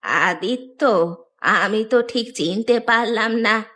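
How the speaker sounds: aged voice, unsure who it is; puzzled old woman. Acted. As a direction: wonder aloud like a confused granny. Old woman fails to recognise visitor. (বৃদ্ধার দ্বিধাভরা গলা)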